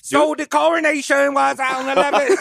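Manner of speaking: high-pitched, badly faked British accent; botched British accent.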